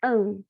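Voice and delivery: "an" said alone as a nasal vowel, no M; nasal "an" sound. Shown as a demonstration. Teacher to pupils, showing the nasal sound. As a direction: hold the nasal "an". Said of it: "esse som de an".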